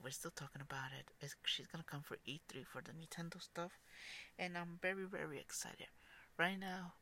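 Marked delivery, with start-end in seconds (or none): 0.0-5.9 recording in a closet. Real, not acted. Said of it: "I am recording from my closet".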